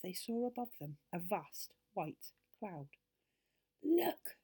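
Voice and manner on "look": high, loud exclamation of wonder; amazed. A narrator's reading. Joe spots a hole in the cloud, amazed. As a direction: call out in amazement. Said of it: "said Joe in amazement".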